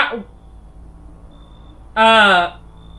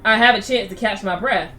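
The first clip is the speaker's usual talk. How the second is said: put-on old lady voice. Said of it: "an old lady like me".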